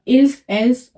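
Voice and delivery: इल्स, एल्स said with the s sounded as z before ont; sounded final s. Shown as a demonstration. Teacher shows students the ils ont liaison, with the s sounded. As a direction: let the s of इल्स and एल्स ring into on. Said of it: "तो ये एस pronounce होगा".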